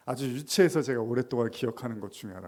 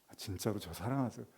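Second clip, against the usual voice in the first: soft pleading question; 3 semitones lower, 9 dB quieter than usual. Acted. Pastor asking again.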